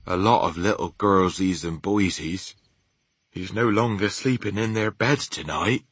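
the BFG's folksy story voice; lightly voiced giant. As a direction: lightly play a childlike, word-mangling giant. Narrator voices the BFG.

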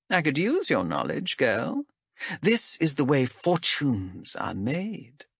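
lightly voiced stern elf captain; a hint of a cool interrogator. Zenthi voiced by narrator.

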